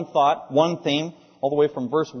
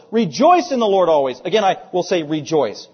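firm emphasis on "Rejoice", louder at the start; emphatic; 5 dB louder than usual. Acted. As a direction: press "Rejoice" home, then restate it evenly. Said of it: "he has to say it emphatically".

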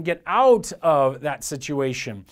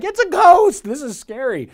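sudden high yelp of fright, much louder; terrified disciples; 10 semitones higher, 10 dB louder than usual. Retold or imitated. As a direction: shriek it like you just saw a ghost. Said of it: "they're like".

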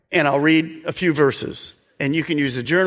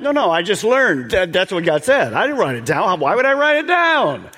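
mock excuse; 4 semitones higher, 4 dB louder than usual. Acted excuse of a churchgoer.

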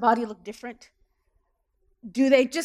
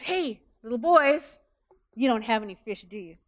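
teasing. Acted. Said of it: "in a way that assumes a negative answer".

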